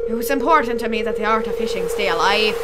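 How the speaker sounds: put-on old pirate spinning a yarn; pirate sailor voice; pirate accent. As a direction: talk like a salty pirate fisherman. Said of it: "give him a pirate accent now".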